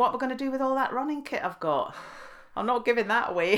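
jokey voice for the husband; husband's thought. Retold or imitated. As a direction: play up his greedy worry. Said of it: "Bob was thinking".

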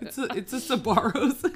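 put-on loud, high Italian-American accent; hammed-up Italian pizza guy; mock Italian accent.

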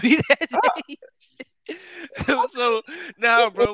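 laughing through the words. Real, not acted. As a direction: crack up mid-sentence. Teasing friend about gas rant.

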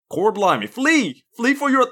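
high-pitched bad British, drifting into Southern; mock British accent slipping Southern. Co-host warning villagers to flee, mock British gone Southern. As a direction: cry out in botched British turned Southern. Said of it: "I can do a mocking British".

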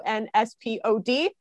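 all in one breath, no pauses; said all in one breath, no breath taken. Real, not acted. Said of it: "Did that all in one breath".

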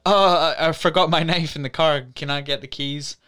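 a lightly voiced girl slipping away with an excuse; sweet fake-innocent voice; sly excuse. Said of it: "Maya Hawke is like".

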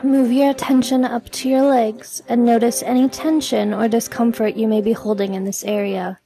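measured meditation delivery with long pauses; guided meditation. Acted. Podcast host leading listeners through releasing stress, guided meditation. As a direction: guide the listener gently, leaving room to breathe.

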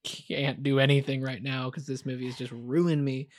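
mock-tearful wail on the opening words; retold crying. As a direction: retell a tearful collapse, lightly acted. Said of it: "I just started crying".

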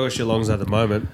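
congested, nasal voice; blocked nose. Real, not acted. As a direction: talk through a blocked nose. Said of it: "Yours sounds all congested, nasally".

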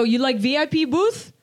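put-on light Persian accent on the question. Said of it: "You say it like that?".

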